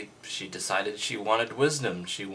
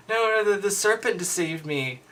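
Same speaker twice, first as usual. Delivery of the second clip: much higher, shrill-voiced protest in mock panic; mock defensive woman; 10 semitones higher, 5 dB louder than usual. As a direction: pass the blame on in a put-on woman's voice. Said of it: "look at the blame game here".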